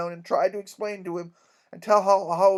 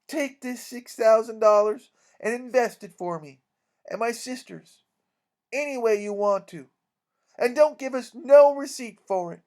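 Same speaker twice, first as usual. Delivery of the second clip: higher, resolute declaration; defiant trust; 4 semitones higher, 4 dB louder than usual. Acted. Mary Jane handing the King the money, resolute. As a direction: make a proud show of trusting him.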